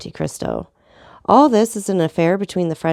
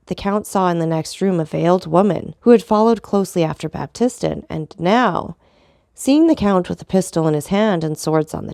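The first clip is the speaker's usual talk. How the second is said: even, measured storybook reading; story narration. A narrator's reading. Narrator reading The Count of Monte Cristo to listeners, steady. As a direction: read the tale steadily to listeners. Reads a classic novel aloud.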